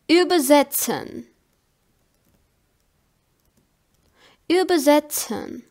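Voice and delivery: "übersetzen" with a clear ts in "setzen"; ts pronunciation demo. Shown as a demonstration. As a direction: model the German "übersetzen", sounding the ts. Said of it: "They are pronounced like ts".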